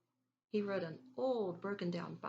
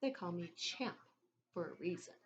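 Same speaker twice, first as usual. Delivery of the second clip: mouth full. Acted. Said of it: "with a mouthful of dill pickle chips".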